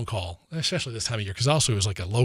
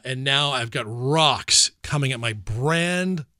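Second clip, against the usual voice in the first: slow, emphatic indignation, word by word; getting worked up retelling it; 2 semitones higher, slower than usual. Real, not acted. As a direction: draw out the outrage slowly. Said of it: "I'm getting all worked up again".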